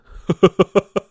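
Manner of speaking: loud burst of laughter; laughing. Real, not acted. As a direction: cracks up at himself. Laughing at own bad accent.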